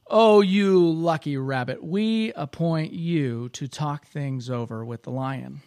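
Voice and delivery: butter him up with a grin in the voice; sly flattery. Acted. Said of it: "grinning slyly".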